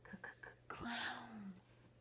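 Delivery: stammered whisper, c-c-c-clowns; frightened stammering whisper; scared stammer. A narrator's reading. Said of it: "Chucky started stammering".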